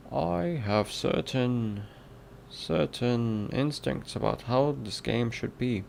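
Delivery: put-on British reading voice; British accent. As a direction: read aloud in an amateur British accent. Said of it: "British accent one oh one".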